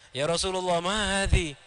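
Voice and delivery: respectful, even-pitched question; mannerly acted query in a level voice; polite asking. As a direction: ask it courteously, without reproach. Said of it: "dengan sopan ya, dengan adabnya".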